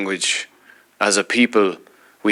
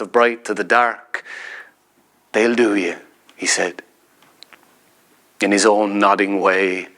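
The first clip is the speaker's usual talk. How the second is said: measured, unhurried poetry reading; reading a poem aloud to an audience; poem recital. Acted. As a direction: let each image land as you read. Recites his own poem.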